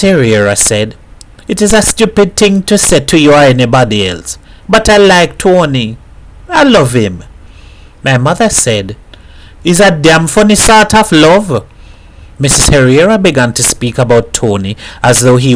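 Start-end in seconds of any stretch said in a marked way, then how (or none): 1.5-7.2 higher, fretful woman's voice, lightly voiced; a neighbour pouring out her worry over her man; lightly voiced troubled woman confiding; worried Mrs Herrera. 9.6-11.6 higher, lively island mother's voice, lightly voiced; a mother mocking her dead husband to a visitor; lightly voiced Trinidadian mother joking.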